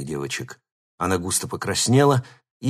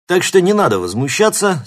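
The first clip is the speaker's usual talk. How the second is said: stern coach; 10 semitones higher, 8 dB louder than usual. A narrator's reading. Coach rebuking team.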